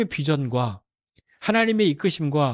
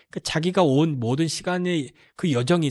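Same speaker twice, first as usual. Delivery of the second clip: ordinary talk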